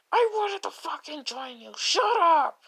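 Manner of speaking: strained, held-back mock yell; mock defensive retort. Cat argues back.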